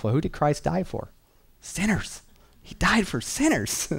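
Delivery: pitched well up, answering his own question; a self-reminder sung out high; reminding himself. Retold or imitated. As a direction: lift the voice high on sinners. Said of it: "he would remind himself".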